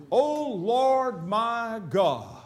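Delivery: O Lord my God stretched out slowly; slow reverent prayer. Acted. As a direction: breathe it like a reverent plea. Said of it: "that's a way to start a prayer".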